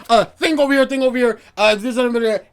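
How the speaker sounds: loud mock yelling of quick directions; a hammed-up coworker calling out from across the room. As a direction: bark it across the kitchen, half-mocking.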